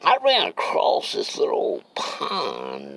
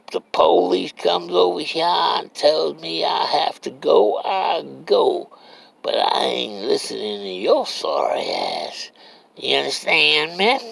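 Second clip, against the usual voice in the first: defiant retort; 8 semitones higher than usual. Retold or imitated. Still defying the old man.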